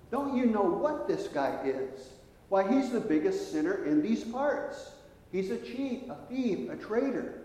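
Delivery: high, indignant protest at Jesus; scandalised, pleading outrage; hostile crowd. Retold or imitated. The angry crowd scolding Jesus over the sinner, indignant and high. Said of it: "now turned quite hostile".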